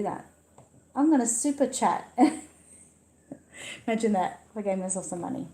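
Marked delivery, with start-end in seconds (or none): 2.2-5.5 quick, giggling through the words; laughing. Real, not acted. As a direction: laugh at your own joke. Jokes about super-chatting herself.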